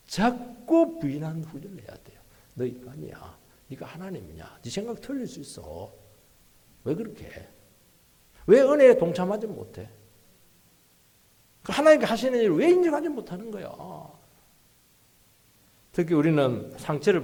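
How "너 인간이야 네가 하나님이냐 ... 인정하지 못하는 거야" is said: self-rebuke. Acted. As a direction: start hushed, build to an indignant rebuke. Preacher acts out rebuking oneself.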